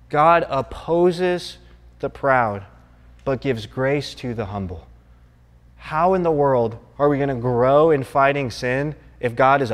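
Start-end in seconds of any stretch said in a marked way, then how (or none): 0.1-4.9 GOD opposes said very slowly, each word set apart; slow emphatic repeat. Shown as a demonstration. Preacher repeating the verse to the church, slow and weighty. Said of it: "repeats verse slowly".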